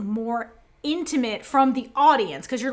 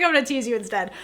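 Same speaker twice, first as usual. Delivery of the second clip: laughing tease; faster than usual. Retold or imitated. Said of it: "She's like".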